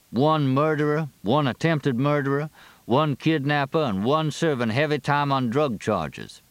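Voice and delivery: high-pitched roll call, each item set apart; sheriff reading a list. Acted. Sheriff reads the convicts' crimes to Fletch, itemising them. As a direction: list them one by one, slowing on the last.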